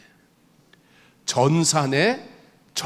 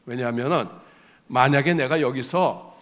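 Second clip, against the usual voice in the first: ordinary talk, nothing marked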